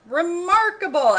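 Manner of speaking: very high, very loud, slow exclamation; declared in awe. Acted. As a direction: proclaim it in astonishment. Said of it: "Elephant Mighty declared".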